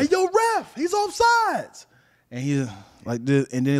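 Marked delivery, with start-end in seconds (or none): 0.0-1.8 high, loud shout, last words slow; 1 yelling at the ref. Retold or imitated. Lineman yelling at the referee about an offside kid, shouting high. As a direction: call out to the ref across the field. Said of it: "I was like".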